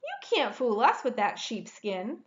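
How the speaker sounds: high, loud refusal; squeaky defiant pig; defiant little pig. A narrator's reading. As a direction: refuse him, not fooled. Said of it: "said the second little pig".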